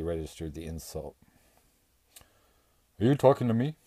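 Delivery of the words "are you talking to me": higher, louder dim-strongman yell; Bradley finally yelling at the bear. A narrator's reading. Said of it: "he yelled at last".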